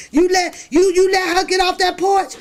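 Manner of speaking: put-on mother scolding the kid for the porch, high and loud; angry mom voice. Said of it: "I be like".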